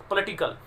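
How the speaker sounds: "पॉलिटिकल" as puh-LI-ti-kul; correct pronunciation. Shown as a demonstration. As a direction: reduce the first vowel of "पॉलिटिकल" to a schwa. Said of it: "पॉलिटिकल होता है".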